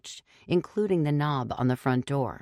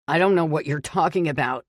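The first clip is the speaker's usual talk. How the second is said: fast, louder frightened protest; cried out; 5 dB louder, faster than usual. A narrator's reading. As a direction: rush it out, terrified. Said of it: "he cried".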